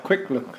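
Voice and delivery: "quick look" said as two plain English words; easy English sound-alike. Shown as a demonstration. Villager joking the interviewer through the name, "quick look" as English words. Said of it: "look quick and call it".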